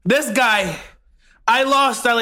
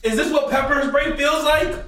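numb mouth; 4 semitones higher than usual. Real, not acted. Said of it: "My mouth is so numb".

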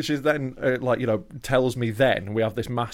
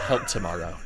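put-on drunk friend; 6 semitones lower than usual. Imitating drunk friend's slurred plea.

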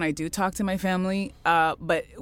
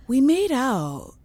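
sheepish confession; 7 semitones higher, 4 dB louder, much slower than usual. Retold or imitated. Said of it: "And she is like".

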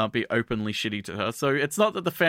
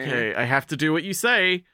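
meek Hana; 4 semitones higher than usual. Retold or imitated. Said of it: "And Hana's like".

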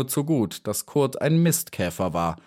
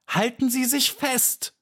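very high, urgent shout; urgent cry. A narrator's reading. Maja shouts to the beetle as the blade bends, very high. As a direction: call out to him to grab on now. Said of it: "schrie Maja".

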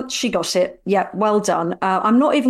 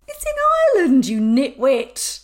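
mock exasperation; 4 semitones higher than usual. Real, not acted. Teasing friend over quiz.

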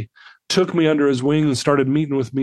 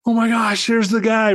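put-on much higher voice of an amazed little girl; imitated wide-eyed amazement; 8 semitones higher than usual. Little girl spotting her returning benefactor, imitated amazement. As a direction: mimic a kid's thrilled recognition, pitched way up. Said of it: "her eyes get really big".

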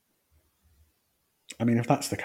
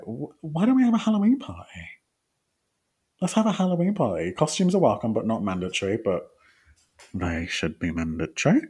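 excited pitch; 2 semitones higher than usual. Retold or imitated. Daughter proposing a Halloween party to parents, eager. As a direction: sell the party idea brightly. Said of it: "And I was like".

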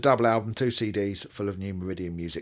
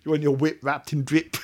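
dodgy street slang; 3 semitones higher than usual. Acted. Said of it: "Sounds really dodgy".

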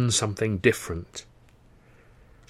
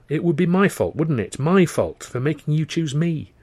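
tearful reproach; 7 semitones higher, 3 dB louder than usual. Acted. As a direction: hold back tears as you blame him. She reproaches him tearfully.

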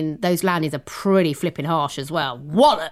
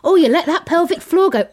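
laughing tease; 10 semitones higher than usual. Real, not acted. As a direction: cackle at her friend. Teasing co-host who wet herself.

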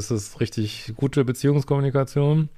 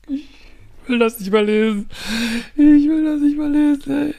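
much higher and louder, rising to a wail; can't take any more of this; exasperated outburst; 13 semitones higher, 3 dB louder than usual. Real, not acted. Echte Verzweiflung beim Vorlesen. (verzweifelt, viel höher und lauter)

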